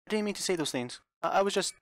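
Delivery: high, loud begging between sobs; sobbing plea. Acted. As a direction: beg Mother not to be angry. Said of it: "Rosa sobbed with grief".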